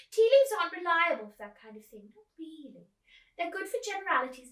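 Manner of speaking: put-on high, loud old lady; high old lady lecturing the girl. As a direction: explain it breezily as an old actress. Miss Spink explains, high voice.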